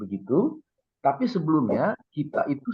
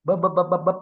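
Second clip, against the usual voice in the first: mock gibberish yelling; 7 semitones higher, 5 dB louder than usual. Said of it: "dia teriak-teriak".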